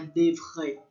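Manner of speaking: devre with the R scraped in the throat. Shown as a demonstration. Teacher sums up the throat sound, guttural R. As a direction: finish devre on a French guttural R. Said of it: "da garganta".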